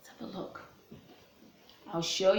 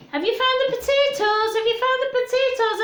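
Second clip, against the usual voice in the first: eager question; 14 semitones higher, 4 dB louder, faster than usual. Acted. Grandpa eagerly asks boy.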